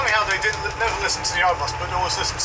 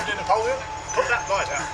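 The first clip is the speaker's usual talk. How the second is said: Hodges impression; 4 semitones higher than usual.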